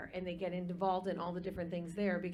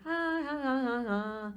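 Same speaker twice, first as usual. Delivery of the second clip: mock country-style "ah" wobble; imitated jaw-wobbling singing; 4 semitones higher, 3 dB louder than usual. Coach shows contestant the jaw movement, imitated wobbly ahs. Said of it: "your jaw moves on".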